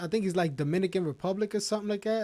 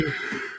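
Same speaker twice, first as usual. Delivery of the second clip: wheezing laugh; 4 dB quieter than usual. Real, not acted. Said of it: "you got me doing that joint".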